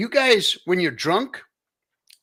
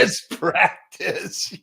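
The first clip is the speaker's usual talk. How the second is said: laughing; 3 semitones higher, much slower than usual. Real, not acted. Laughing at guest's joke.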